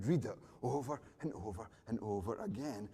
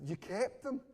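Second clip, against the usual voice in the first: surprised; 8 semitones higher than usual. Retold or imitated. Dad to daughter about his saved letters, surprised. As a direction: let the surprise lift your pitch right up.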